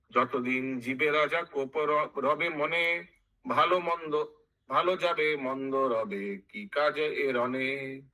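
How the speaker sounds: slow sing-song verse with stretched endings; chanted Bengali epic verse; verse recitation. Acted. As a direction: intone the couplet like scripture. Verse chanted before its explanation.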